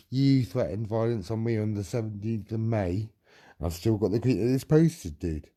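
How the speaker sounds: loud, furious rebuttal; real anger, yelling accusations; angry shouting. Real, not acted. Shouting back in an argument.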